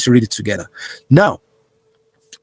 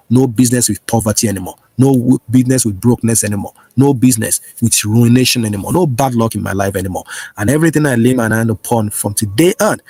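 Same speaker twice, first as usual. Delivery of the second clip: prayer declaration. Acted. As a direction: declare each line for the flock to repeat. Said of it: "Say this with me right now".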